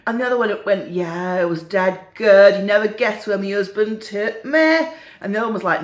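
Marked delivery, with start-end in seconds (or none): 0.9-4.9 second northern old lady, lightly voiced; chatty northern English natter; put-on northern English, near own pitch; northern English accent. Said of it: "have a go at the accents".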